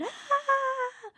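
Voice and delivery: high-pitched scream held back in volume; long, high pretend shriek; mock scream. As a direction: imitate screaming without the loudness. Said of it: "I'm literally screaming at four A M, going".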